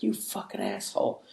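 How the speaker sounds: high, mocking furious scold; angry email. Army officer scolding him by email, high mock fury. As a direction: rant at him like an outraged officer. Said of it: "that was like".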